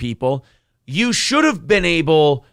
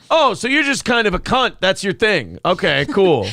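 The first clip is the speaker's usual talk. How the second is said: sarcastic animal voice; 5 semitones higher than usual. Pretend. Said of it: "dude, what the fuck".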